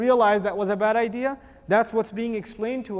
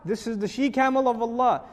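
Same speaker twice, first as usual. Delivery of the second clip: urgent warning; 3 semitones higher, 4 dB louder than usual. Retold or imitated. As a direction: warn them sternly to keep away. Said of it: "There's warning".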